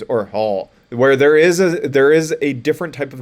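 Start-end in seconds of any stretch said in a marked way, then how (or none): 0.3-0.7 "l" voiced as a vowel-led "ul" noise; schwa sound demo. Shown as a demonstration. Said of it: "type of noise".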